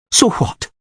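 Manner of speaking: barely voiced, under the breath; muttered through teeth. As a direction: spit it out through clenched teeth. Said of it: "muttered through her teeth".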